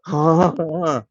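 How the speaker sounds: imitated gasps from a freaked-out group; mock horrified gasping; shocked gasps. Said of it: "They all freaked out".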